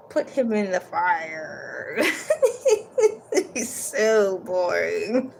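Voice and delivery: slow words through laughter; laughing. Real, not acted. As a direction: laugh while you say it. Reader laughing at boring character.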